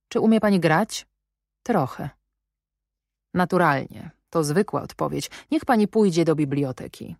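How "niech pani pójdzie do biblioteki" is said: curt command, stress on Niech; commanding order. Acted. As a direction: order her to the library like a master. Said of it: "Proszę mi darować mój ton rozkazujący".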